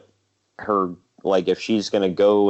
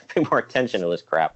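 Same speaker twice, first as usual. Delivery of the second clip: fighting back laughter; laughing; faster than usual. Real, not acted. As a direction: laugh through the words. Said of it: "can't even get it out without laughing".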